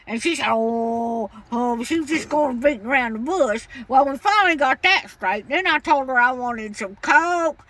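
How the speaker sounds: put-on cranky old lady voice. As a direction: play a stubborn old woman customer. Caller holds an old lady voice.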